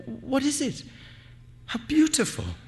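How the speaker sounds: high, far lighter voice of amazement; hushed wonder. A narrator's reading. Aminta feeling something in the air, high-voiced wonder. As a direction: voice her wonder, pitched well up. Startled woman voiced in narration.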